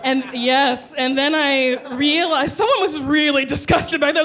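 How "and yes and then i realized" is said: ordinary talk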